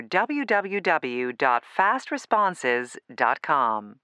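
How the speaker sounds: slow, deliberate phone menu read; slow and careful. Acted. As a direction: spell out the web address slowly. Spelling out a web address.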